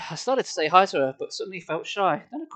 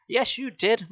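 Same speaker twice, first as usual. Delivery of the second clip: insisting; 5 semitones higher, slower than usual. Retold or imitated. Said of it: "Mona insisted".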